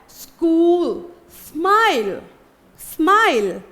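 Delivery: स्कूल and स्माइल with a half s cluster; model words. Shown as a demonstration. To the class, a teacher models स्माइल with a half s. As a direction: say स्माइल with a quick s joined to m. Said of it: "आधा सा की तरह".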